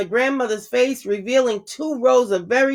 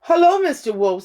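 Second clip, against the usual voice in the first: put-on bright, high girlish greeting; lightly voiced innocent girl; little girl voice; 6 semitones higher than usual. A narrator's reading.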